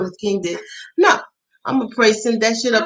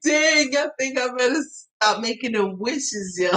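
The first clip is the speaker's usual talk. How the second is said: stunned realization; 5 semitones higher than usual. Retold or imitated. Telling viewers about her wish, mock dismay. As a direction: caught off guard by her own wish.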